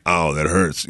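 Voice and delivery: flat, lifeless line read for a talking doll; a toy voice box bored by its own pain; deadpan toy voice. Retold or imitated. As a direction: say the pain line with zero emotion. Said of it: "no emotion behind it".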